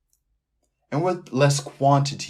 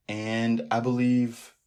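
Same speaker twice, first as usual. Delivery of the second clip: voice crack; much slower than usual. Real, not acted. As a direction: voice cracking on believe. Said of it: "you guys heard that voice crack".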